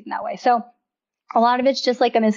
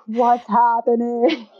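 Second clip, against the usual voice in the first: bewildered husband; much slower than usual. Retold or imitated. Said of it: "And he's like".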